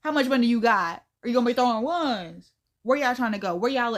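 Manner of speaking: chirpy, loud phone chat voice. Retold or imitated. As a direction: sound like a friendly phone call. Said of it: "talking like I'm on the phone with him".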